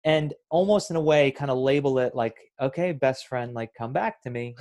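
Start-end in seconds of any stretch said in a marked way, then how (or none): 2.6-4.6 a light touch of gentle coaxing; nice gentle way. Shown as a demonstration. Coaching listeners, gently calling their mind back. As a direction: softly call the wandering mind back. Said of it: "in a nice, gentle way".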